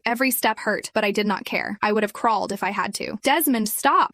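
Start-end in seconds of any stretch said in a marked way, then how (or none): 3.2-4.1 louder pleading scream. Acted. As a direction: cry out to make him stop. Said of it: "I screamed".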